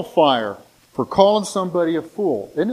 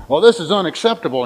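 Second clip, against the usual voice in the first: mock indignant, louder and quick; indignant complaint; 2 semitones higher, 6 dB louder, faster than usual. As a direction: imitate a customer kicking up a fuss. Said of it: "he's making a big deal about this".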